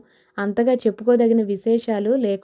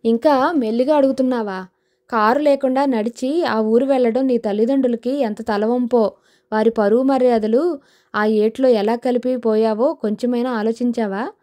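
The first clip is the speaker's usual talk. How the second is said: mock scolding, a touch put on; feigned anger. Father mock-scolding his daughter, playfully stern. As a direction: pretend to scold, not meaning it. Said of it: "లేని కోపాన్ని నటిస్తూ".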